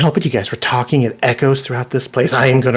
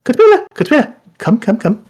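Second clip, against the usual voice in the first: high, loud call to the cook; 13 semitones higher, 6 dB louder than usual. Acted. Major domo summoning the cook, high and loud. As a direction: shout her name across the hall.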